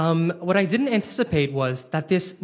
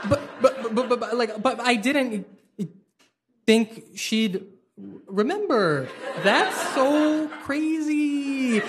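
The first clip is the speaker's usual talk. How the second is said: flustered; 7 semitones higher, slower than usual. Retold or imitated. Flustered, laughing disbelief.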